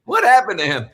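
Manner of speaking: tag. Retold or imitated. Acted reaction, laughing.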